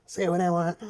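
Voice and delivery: laughing through a defiant brush-off; smug voice. Pretend. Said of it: "they're like".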